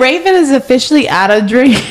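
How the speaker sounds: tipsy. Real, not acted. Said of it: "I'm a little tipsy right now".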